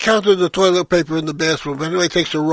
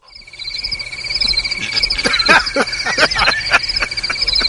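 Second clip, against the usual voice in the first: laugh. Real, not acted. Teller laughs after punchline.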